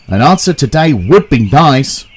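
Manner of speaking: cross. Acted. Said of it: "said the driver crossly".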